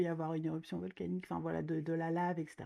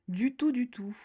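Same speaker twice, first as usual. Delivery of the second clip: repeated out loud, higher and louder; higher, louder insistence; emphatic; 5 semitones higher, 5 dB louder, slower than usual. Real, not acted. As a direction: insist on it brightly. Emphatic repeat after whisper.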